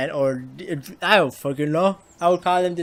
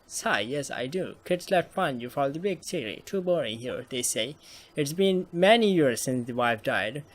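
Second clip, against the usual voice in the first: softer, a touch of resignation; lightly voiced wistful grandpa; 3 dB quieter than usual. Grandpa telling detective he lives alone, quietly resigned. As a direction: trail quietly through an old widower's answer.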